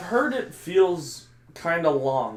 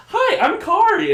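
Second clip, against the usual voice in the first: put-on very high, loud, drawn-out babysitter greeting; Kari; 8 dB louder than usual. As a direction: put on a squeaky, chirpy hello. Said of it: "babysit for a little bit and be like".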